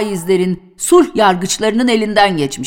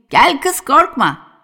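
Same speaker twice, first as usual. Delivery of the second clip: put-on old grandfather coaxing; 6 semitones higher, slower than usual. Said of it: "kızlara şöyle bağırırdı".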